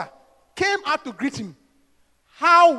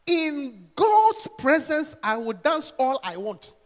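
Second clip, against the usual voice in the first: calm firm reply; 4 dB quieter, slower than usual. Acted. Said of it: "he had a sharp mouth".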